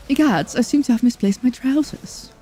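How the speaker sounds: slightly high, put-on proper British; badly faked British dismay; mock British accent. Shown as a demonstration. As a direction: announce it in a hammed-up British accent. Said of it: "a terrible British accent".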